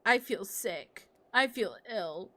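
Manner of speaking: slow, understated queasy complaint; Emmy. Retold or imitated. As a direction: lightly imitate a friend declaring she feels ill. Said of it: "That was a good Emmy impression".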